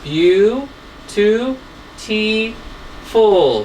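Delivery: beau, T, full split into separate beats; teacher splitting a word into syllables. Shown as a demonstration. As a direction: clap out each syllable of beautiful. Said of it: "We have one".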